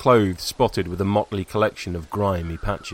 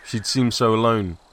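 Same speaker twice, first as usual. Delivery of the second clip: plain reading voice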